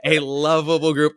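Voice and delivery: a lightly voiced eager newcomer asking politely; mild hammed-up eager plea; mock earnest request. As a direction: politely ask the city for weirdos. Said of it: "moved to a city and went".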